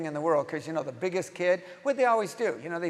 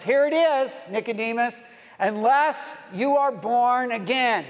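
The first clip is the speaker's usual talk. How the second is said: raised, louder, slowing preacher's declaration; emphatic declaration; 3 semitones higher, 4 dB louder than usual. Acted. Preacher voicing Jesus answering Nicodemus, emphatic declaration. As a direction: voice Jesus laying it down firmly.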